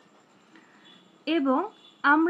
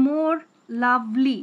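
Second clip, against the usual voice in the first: slow scansion; 5 dB louder, much slower than usual. Shown as a demonstration. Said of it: "লাভলি দুইটা syllable".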